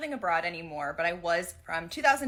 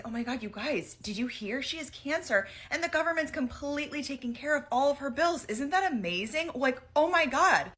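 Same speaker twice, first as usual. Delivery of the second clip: gushing amazement; 8 semitones higher than usual. Retold or imitated. Telling two friends about the Swedish girl's covered bills, excited and high-pitched. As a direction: play the wide-eyed American who just discovered free healthcare.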